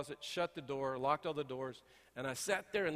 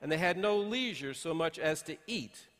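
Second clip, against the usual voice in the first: scripture reading. Acted. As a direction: read the verses out deliberately to the congregation. Pastor reads scripture aloud.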